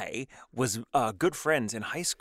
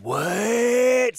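shocked what; 13 semitones higher, 7 dB louder than usual. Retold or imitated. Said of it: "And I was like".

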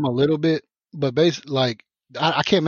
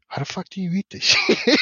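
higher, cracking into a laugh at the food; baffled, half laughing at the plate; mock bewildered what the fuck with a laugh; laughing disbelief; 6 semitones higher than usual. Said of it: "and I was like".

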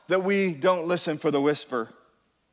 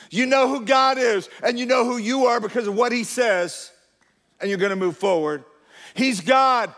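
rising preacher fervor; 5 semitones higher than usual. Real, not acted. Preaching climax to congregation.

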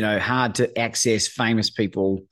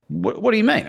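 much higher, stammering disbelief; astonished question; 12 semitones higher than usual. Retold or imitated. Friend stunned by the phone-call news, high and disbelieving. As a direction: imitate a friend who can't believe it.

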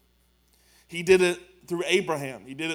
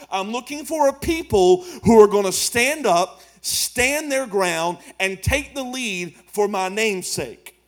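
forceful preaching; 6 dB louder than usual. Acted. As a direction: thunder it out from the pulpit. Preacher voicing God, building.

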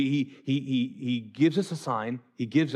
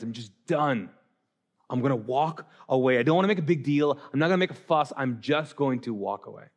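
weary Joseph; 2 semitones lower than usual. Retold or imitated. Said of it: "he was like".

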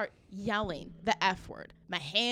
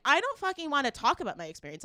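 higher-pitched, exasperated comeback; retold angry reply; 5 semitones higher, 4 dB louder than usual. Fed-up shopper refuses clerk's question, retold angry retort. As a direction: snap back as in a re-enacted argument.

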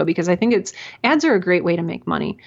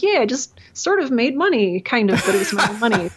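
higher, giggling through the joke; laughing self-quote; 4 semitones higher than usual. Retold or imitated. Podcaster mocking herself for buying her own shirt, laughing. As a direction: chuckle at your own silly logic, speeding up at the end. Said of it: "And I'll be like".

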